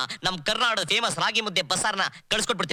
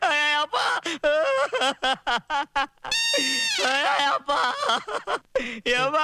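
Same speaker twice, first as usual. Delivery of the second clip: shocked cry; 8 semitones higher, slower than usual. Acted. Shocked by the elders request.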